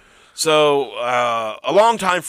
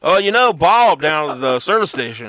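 talking into hand phone; 3 semitones higher, 3 dB louder than usual. Pretend. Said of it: "He's talking it to his hand right now like it's a phone".

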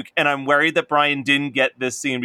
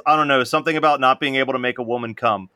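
fast Carl line; much faster than usual. Retold or imitated. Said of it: "Carl says".

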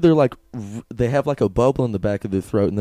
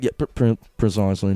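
lightly mocking a would-be smart talker; a hint of eye-rolling smugness; condescending know-it-all. Mocking people who try to sound smart, lightly condescending. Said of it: "kinda, like, rolling your eyes".

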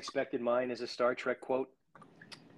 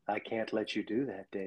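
emotionless; 3 semitones lower, 7 dB quieter than usual. Retold or imitated. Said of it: "No emotion whatsoever".

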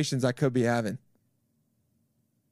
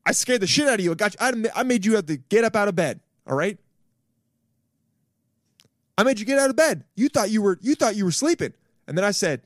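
taunting death; 6 semitones higher than usual. Acted. Talking to death, waking it up to taunt it. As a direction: gloat right in death's face.

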